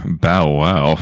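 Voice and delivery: low growly dog bark; wolf voice. Pretend. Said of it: "Say what's up to the kids in your wolf voice".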